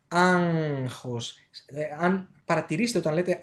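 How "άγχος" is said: ΆΓΧΟΣ with a drawn-out nasal ng; nasal ng demonstration. Shown as a demonstration. Teacher showing learners the nose sound, ΆΓΧΟΣ with nasal ng. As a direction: linger on the ng inside ΆΓΧΟΣ. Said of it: "το οποίο λες στη λέξη άγχος".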